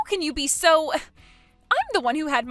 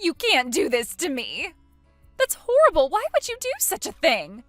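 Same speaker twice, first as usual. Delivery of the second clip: much louder and higher; distraught shriek; 4 semitones higher, 8 dB louder than usual. Acted. Stranded bride wailing at the cruelty, distraught shriek. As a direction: wail in outrage.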